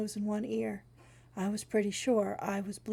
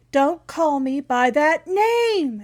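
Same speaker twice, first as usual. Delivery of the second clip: slow, loud, high scream; 6 semitones higher, 9 dB louder, slower than usual. Acted. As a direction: scream it out in fury. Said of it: "she screamed the last part".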